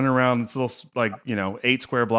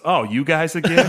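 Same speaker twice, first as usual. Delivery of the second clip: mock weary cop; 4 semitones higher than usual. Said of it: "Same cop goes".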